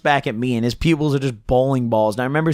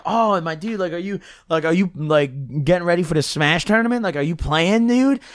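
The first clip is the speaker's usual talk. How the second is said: higher, eager hyped-up chatter; overexcited; 4 semitones higher than usual. Retold or imitated. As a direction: gush at him like a new best friend. Retold tripping, hyped chat.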